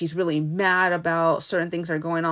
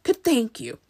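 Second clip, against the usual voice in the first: hammed-up jubilation; overjoyed Scarecrow; 12 semitones higher than usual. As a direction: exult in a pitched-up character voice. Scarecrow rejoices at his brain.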